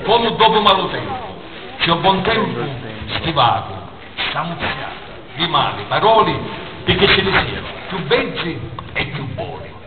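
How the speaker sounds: emphatic verse in short, separated phrases; poem recitation. Acted. Poet recites his second poem to the audience, emphatic declamation. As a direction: declaim it phrase by phrase with deliberate pauses.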